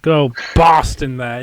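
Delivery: "Boston" said loud with a broad Boston vowel; thick Boston accent. Pretend. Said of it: "that's how we say it".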